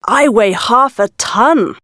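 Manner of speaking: slow and proud. Acted. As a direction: boast it slowly, a touch proud. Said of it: "the elephant bird said proudly".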